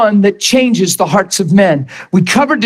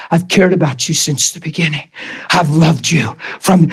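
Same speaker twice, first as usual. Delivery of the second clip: voice of God; 6 semitones lower than usual. Acted. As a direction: speak as God, gently close. Voicing God to the man.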